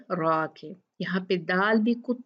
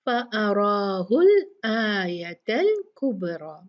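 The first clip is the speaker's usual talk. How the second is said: slow melodic recitation; slow Quranic recitation; 4 dB louder, much slower than usual. Shown as a demonstration. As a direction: chant the verse slowly. Recites the verse.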